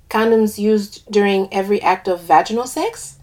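put-on lilting West Indian accent. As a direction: speak with a light West Indian lilt. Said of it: "I do an accent for one of the characters".

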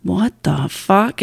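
slow, drawn-out what the fuck; replaying the shock of his message; stunned disbelief. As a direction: let the disbelief stretch each word. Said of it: "And I was like".

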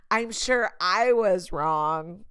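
slow, drawn-out insincere apology; fake apology. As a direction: stretch it out so no one believes you. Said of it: "the weird fake sarcasm".

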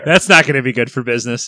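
Seinfeld quote. Retold or imitated. Quoting Seinfeld line.

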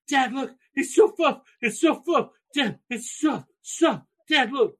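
put-on high, eager child's voice; gushing little girl. Daughter showing dad a baby chick, high and gushing. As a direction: gush like a tot holding a fluffy chick.

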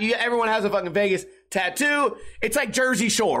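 ordinary talk, nothing marked

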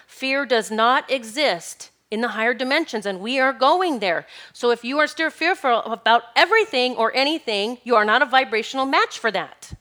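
emphatic, worked-up insistence; fired up, stressing the key words hard; getting excited. Real, not acted. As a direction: preach it with rising conviction. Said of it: "I'm getting a little excited".

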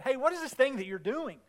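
imitating a scornful accuser; mock jeering. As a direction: question them with mild mock scorn. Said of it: "they jeered at us and despised us".

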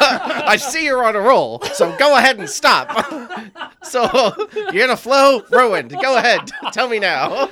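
laughing. Real, not acted. Teasing through laughter.

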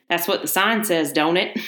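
lightly voiced Southern country woman; southern accent. Old farm woman answering the salesman, in a light Southern accent. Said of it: "I'm gonna do a southern accent".

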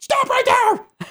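high, slow, drawn-out hammed-up yell; crazy person yell. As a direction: bellow it like a crazy old man stopping thieves. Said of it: "Like a crazy person".

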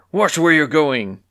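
irritated shout; angry yelling. A narrator's reading. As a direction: yell it crossly, drawing it out. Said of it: "he yelled at Clucky".

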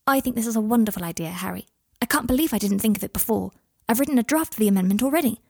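a touch quick and eager; lightly voiced Hermione, keen. Hermione praising Harry's idea, mildly keen. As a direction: push on keenly with the idea.

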